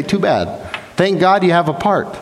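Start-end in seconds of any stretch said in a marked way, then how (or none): 0.0-0.6 nicest possible too bad. Shown as a demonstration. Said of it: "Nicest possible way I can say".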